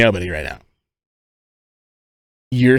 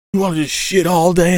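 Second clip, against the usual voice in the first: higher mock mom voice; lightly hammed angry mother; mom scolding; 8 semitones higher than usual. Mom nags son again, higher mock scold.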